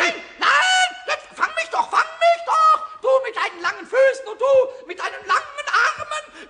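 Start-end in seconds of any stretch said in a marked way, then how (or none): 0.0-3.0 laughing taunt. Acted. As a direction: tease him from out of reach. Pumuckl taunts while fleeing.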